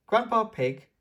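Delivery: put-on high, eager little-girl plea; squeaky child asking grandpa; Peppa's voice. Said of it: "asks Peppa".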